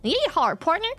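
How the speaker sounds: lightly voiced American cowboy twang. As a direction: put on a hint of a Wild West cowboy. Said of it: "they're not like".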